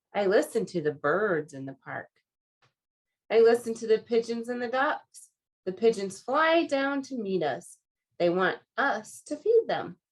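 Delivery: animated picture-book narration; children's story reading. A narrator's reading. Reader telling children about park pigeons, animated narration. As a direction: read it out clearly with lively emphasis.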